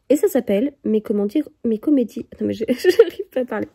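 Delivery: talking around a candy; mouth full. Real, not acted. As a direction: speak with a sweet in your mouth. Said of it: "j'ai un bonbon dans la bouche".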